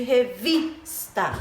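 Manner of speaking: "revista" with emphasis on VIS; "revista" broken up to show strong VIS; stressed syllable. Shown as a demonstration. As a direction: lean on the middle syllable of "revista". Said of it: "qual é a sílaba tônica".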